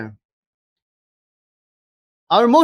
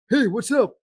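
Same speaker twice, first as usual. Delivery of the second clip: light nasal action-star impression; Sylvester Stallone; 5 semitones higher than usual. Coach giving an example of low nasal, light impression. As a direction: toss off a greeting with a nasal tone. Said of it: "low nasal. Think of, uh, Sylvester Stallone".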